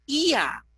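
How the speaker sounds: IA drawn out, i gliding to a; slow teaching IA, both vowels audible; diphthong demo. Shown as a demonstration. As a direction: sound out the vowel pair IA slowly. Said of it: "y hay un diptongo".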